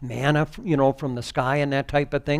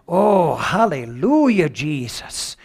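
ecstatic praise; 2 semitones higher, 4 dB louder, slower than usual. Real, not acted. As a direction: cry out in joy. Ecstatic praise mid-sermon.

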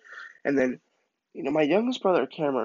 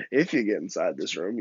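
lower, mocking echo; comical taunt; 4 semitones lower than usual. Boy taunting dad through the blocked door, comical mockery. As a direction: tease back with a chuckle. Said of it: "I'm being kinda, like, comical".

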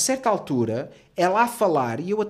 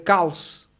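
loud, falling mock order; secret-police type; 4 semitones higher, 6 dB louder than usual. Guard behind a client ordering silence, authoritarian. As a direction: snap a raised, final command. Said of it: "parece um gajo da pid".

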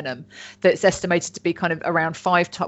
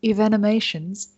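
lightly posh "Evenomations" on purpose; posh accent; 3 semitones higher than usual. Shown as a demonstration. Podcaster redoing a new word, deliberately posh accent. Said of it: "but I'm gonna do it again".

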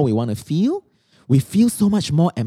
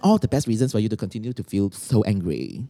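sarcastic; 3 semitones lower than usual. Acted. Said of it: "Do you really speak in this tone?".

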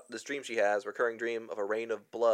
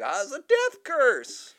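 high, slow eerie doom warning; creepy warning voice; 14 semitones higher, 5 dB louder, slower than usual. Retold or imitated. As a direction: drag it out like a madman. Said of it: "And he's like".

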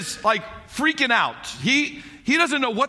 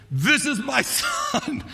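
God's voice; 5 semitones higher, much slower than usual. Retold or imitated. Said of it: "God's voice".

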